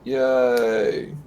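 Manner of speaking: low, soft deadpan yay; unenthusiastic cheer. Real, not acted. Co-host answering the semifinals announcement, deadpan. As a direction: cheer with no energy at all. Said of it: "I hear the enthusiasm".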